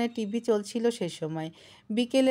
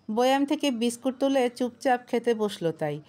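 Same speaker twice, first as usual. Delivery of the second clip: plain reading voice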